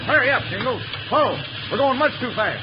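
high, forceful urgent orders; urgent alarm. Acted. Timber boss to Jingles on speeding train, urgently alarmed. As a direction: urge him on as danger mounts.

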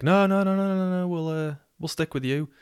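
high, hurried string of refusals; eager girl. Retold or imitated. Girl changing her mind over the coke, eager backtracking. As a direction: burst in high and loud, then ease down.

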